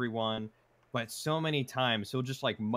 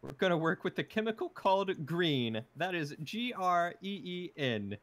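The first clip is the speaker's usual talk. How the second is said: mock chemist; 7 semitones higher than usual. Quoting the hero pretending to be a chemist, hammed up. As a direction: spell it out like a pompous fake chemist. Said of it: "When he's pretending to be a chemist".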